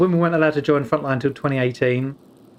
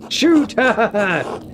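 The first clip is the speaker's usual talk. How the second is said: louder, higher shouted command; mock shouted order; 9 semitones higher, 5 dB louder than usual. Streamer jokingly shouting an order at the screen. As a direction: bark the order out. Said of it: "mock command in game".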